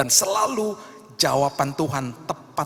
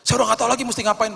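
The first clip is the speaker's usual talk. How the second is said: quoting a despairing member; 10 semitones higher, 5 dB louder, faster than usual. Retold or imitated.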